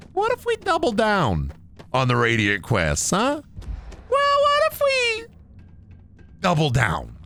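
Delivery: squeaky mock developer pitching the idea; mock hype pitch. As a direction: ham it up like an excited pitchman.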